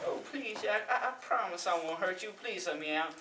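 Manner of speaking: soft, whiny begging; whining. Acted. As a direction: whine for release, quietly pleading. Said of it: "the devil starts whining again".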